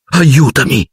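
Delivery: a frightened, pleading moan, voice up high; moaning plea. A narrator's reading. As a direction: beg for help in a half-wail. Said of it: "gemette il ragazzo".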